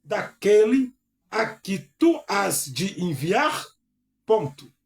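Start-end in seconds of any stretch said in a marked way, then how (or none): 0.0-3.6 lendo a escritura devagar e com ênfase; leitura bíblica solene. Acted. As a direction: proclame a palavra de Deus, pausado. Reads Moses' plea. (pregador lendo a Bíblia para a igreja, em tom solene)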